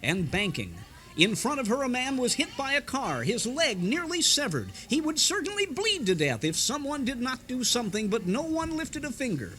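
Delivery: lightly voiced radio sermon; Oswald Hoffman sermon. A radio preacher telling his congregation a story, mildly preachy. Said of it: "it was Oswald Hoffman who said".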